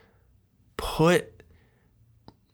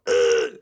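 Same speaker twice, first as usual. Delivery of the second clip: lower, louder short groan; low throaty groan; 5 semitones lower, 3 dB louder than usual. Shown as a demonstration. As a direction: drop it down to a throaty grunt. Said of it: "that upper weird register".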